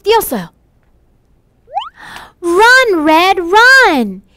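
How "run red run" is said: calling out loud to run; urgent shouted run. Acted. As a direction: shout at her to flee the wolf. Teacher acts out a call to flee.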